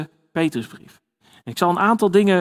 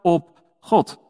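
bold Peter. Retold or imitated. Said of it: "Dit is radicaal".

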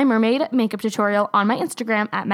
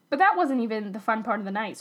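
burping after fizzy drink; 4 dB quieter than usual. Real, not acted. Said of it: "Sorry I keep burping".

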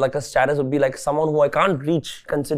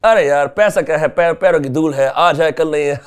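rich Bollywood brat; 3 semitones higher, 7 dB louder, much faster than usual. Retold or imitated. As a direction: toss it off like a spoiled rich kid. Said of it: "ऐसे जो हंसते हैं".

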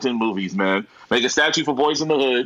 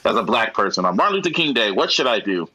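low musing; 6 semitones lower than usual. Retold or imitated. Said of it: "I was thinking, like".

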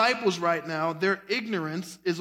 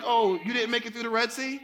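teasing God voice; faster than usual. Retold or imitated. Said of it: "he's like".

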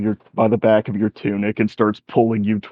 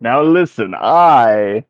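put-on higher, self-important old wizard; pompous wizard; 4 semitones higher, 4 dB louder than usual. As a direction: announce yourself like a grand wizard. DM voices the wizard.

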